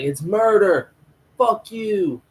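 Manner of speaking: high, loud mock protest; imitated angry heckling. Protester answering Huey's retort, imitated angry heckling. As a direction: argue back hotly as the heckler. Retold heckler argues back.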